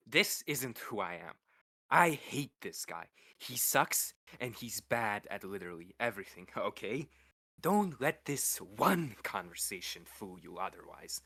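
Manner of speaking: serious disclaimer. Acted. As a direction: lay it down like an official disclaimer. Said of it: "did you just give them a fucking disclaimer".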